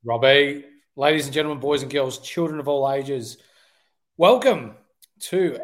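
booming showman welcome; ringmaster. Pretend. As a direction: announce it like a circus ringmaster. Podcast intro, showman welcome.

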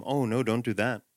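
softly level, unbothered; calm and quiet. Retold or imitated. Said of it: "very calmly and quietly say".

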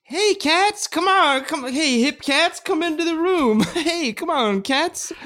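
very high hip jazz cat voice; squeaky high scat-singer character; famous scat singer voice. Acted.

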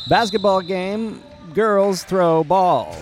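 slow, loud caveman grunt-speak. Acted. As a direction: boom it out like a brute. Caveman-style announcer bit.

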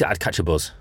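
"buzz" for bus, ending in a Z; Bolton pronunciation. Shown as a demonstration. Showing a colleague how Bolton says bus, "buzz" with a Z. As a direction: say "buzz" with a voiced Z, Bolton style. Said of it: "the Z's instead of the".

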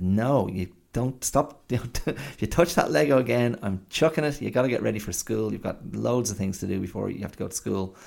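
mock-stern scolding of a dawdling child; retold snapping. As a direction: imitate a flustered telling-off, stumbling then rushing. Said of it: "I just snapped at her".

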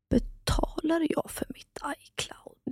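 slow, unvoiced whisper of disbelief; whispering in dismay; shocked whisper. Real, not acted. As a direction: breathe the question out in dawning horror. Shocked realisation about iCloud.

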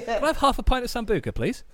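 high-pitched mock drink order; laughing put-on customer; acted bar customer.

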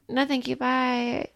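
slow, flat brush-off; curt refusal. Retold or imitated. Co-host turning down a stranger's grilled cheese, slow curt refusal. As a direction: spell out each word to shut him down. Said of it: "I'd go, like".

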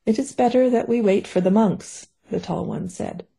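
measured novel reading voice; story narration. A narrator's reading. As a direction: read the mystery chapter steadily to listeners. Author reads her novel aloud.

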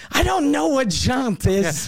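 high, slow exasperated protest; retold anger. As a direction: stretch it out in indignant frustration. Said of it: "So I'm super angry".

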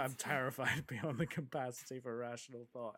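imitating a dry, understated movie line; matter-of-fact deadpan impression. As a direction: quote it drily with a touch of amusement. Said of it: "it's so dry".

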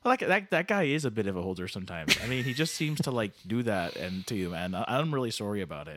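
lightly voiced halting Canadian buddy; folksy, stammering apology; Canada Dave, apologetic.

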